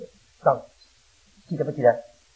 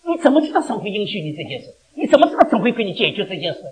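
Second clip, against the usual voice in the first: preaching challenge; 6 semitones higher, 5 dB louder than usual. Acted. Challenges the congregation while preaching.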